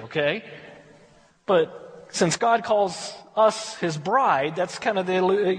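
ordinary talk, nothing marked

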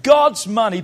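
shouted, punchy declaration. Shown as a demonstration. Pastor declaring to the congregation, shouting. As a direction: proclaim it loud. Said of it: "Come on, say with me".

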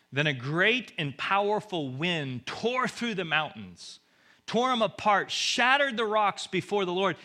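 loud, high, dramatic declaration; forceful scripture reading. A narrator's reading. Preacher reads of the mighty wind to congregation, forcefully. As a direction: thunder it out like the storm.

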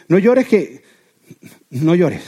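awkward, halting 'don't cry'; mildly uneasy, stopping and restarting the comfort; uncomfortable consoling. Acted. Someone uneasy watching a person cry, uncomfortable consoling. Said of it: "te sientes como que incómodo".

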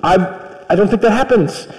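fast, evasive excuse-making; a hint of a weaselly brother, rushed; weaselly Aaron. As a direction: squirm through the excuse quickly. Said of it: "Aaron's kind of a Weasley figure".

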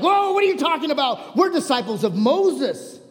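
high, indignant leaders' protest; passionate retelling. Acted. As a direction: protest as if insulted. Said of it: "I was passionate".

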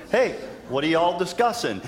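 easygoing Southern hello, hammed a little; Southern Jesus. Preacher redoing Jesus' question in mock Southern accent. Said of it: "Jesus is Southern, by the way".

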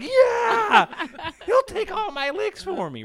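high, loud cheer breaking into laughter; excited mock yell. Camp kids answer the pastor's call, excited mock yell. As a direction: yell it like an over-eager camp kid.

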